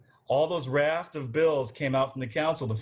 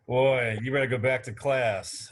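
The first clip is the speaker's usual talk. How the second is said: a hint of a Virginia accent, teasing; mock Southern accent. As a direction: tease him in a Southern accent. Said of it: "I love how this accent just comes and goes".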